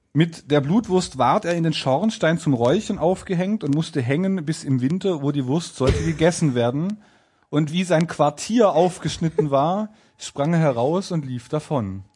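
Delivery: measured storybook reading; fairy-tale narration. A narrator's reading. Narrator telling of the tailor hung in the chimney, storytelling. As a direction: read it out phrase by phrase as a tale.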